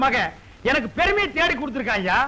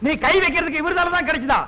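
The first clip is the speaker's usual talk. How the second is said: scolding; 3 semitones higher than usual. Acted. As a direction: scold the nephew with rising indignation. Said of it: "ஏன்பா அவன் இப்படி திட்டுற". (கோபமாகத் திட்டுவது)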